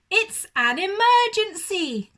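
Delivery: high, loud, fast cry; shouting. Acted. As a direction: make it sound urgent and alarmed. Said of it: "cried Aussie".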